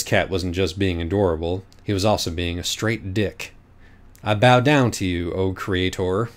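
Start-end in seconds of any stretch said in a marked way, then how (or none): 4.2-6.3 sarcastic. Acted. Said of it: "Minos said sarcastically".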